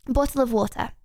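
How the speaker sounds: put-on bottle of water in an English accent, done lightly; a first go at a posh English "Bottle of water". Asked for an English accent, she tries it. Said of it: "Can you say bottle of water in an English accent?".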